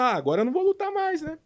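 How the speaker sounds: high, whining retold plea; whiny complaint. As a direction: sound like a beaten kid begging off. Whining to his coach.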